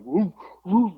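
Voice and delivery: imitated big-dog woofs; mock deep barking. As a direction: woof like a super deep-voiced dog. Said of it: "like, super fucking deep".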